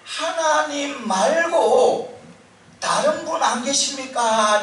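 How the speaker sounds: a man on a cliff asks if anyone else is up there; comic desperate shout. Retold or imitated. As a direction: stretch it out like a last hopeless call. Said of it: "이렇게 소리를 치는 거예요".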